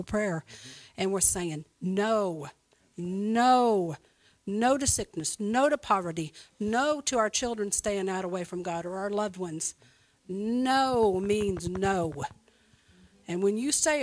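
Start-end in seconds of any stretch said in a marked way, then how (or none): 1.8-4.0 slow, long-held NO; drawn-out emphatic no. Retold or imitated. Retelling emphatic prayer refusals. 10.3-12.1 very slow, stretched NO MEANS NO; drawn-out emphatic refusal. Retold or imitated. Retelling emphatic prayer refusals.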